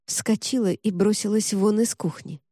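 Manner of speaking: usual speaking voice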